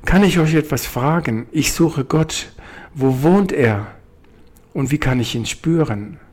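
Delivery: a small bird asking politely and keenly; curious little bird. Acted. Bird asks the ants.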